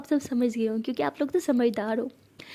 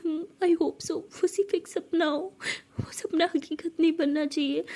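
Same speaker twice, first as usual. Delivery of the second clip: slow, trembling plea on the brink of tears; a mild tearful hope after a bad dream; tearful worry; 3 semitones higher, slower than usual. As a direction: hold back the tears as you speak. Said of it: "ऐसे कह के रोने लगती है".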